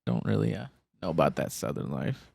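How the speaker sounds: badly faked New York accent; failed New York accent. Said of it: "tried to imitate a New York accent and failed".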